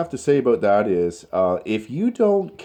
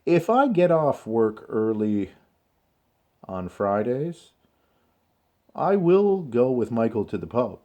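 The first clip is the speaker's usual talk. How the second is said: careful phrases parted by long pauses; slow, controlled model answer; 3 semitones higher than usual. Shown as a demonstration. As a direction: model it slowly, bringing out "will". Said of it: "this is the way in which I would like you to consider speaking".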